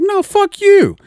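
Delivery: high, loud yelled retort; mock furious shout at a buddy; retold angry comeback. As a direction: throw it straight back at him. Friend fires back in a quarrel.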